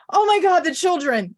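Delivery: high, loud mock panic over the kids; a prudish mom's overblown alarm; mock horrified gasp. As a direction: clutch your pearls and shriek it, hammed-up. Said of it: "but I was like".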